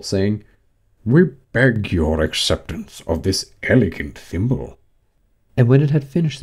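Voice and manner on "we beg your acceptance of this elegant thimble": pompous, measured Dodo; solemn presentation. A narrator's reading. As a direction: present it like a formal little speech. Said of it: "the dodo solemnly presented".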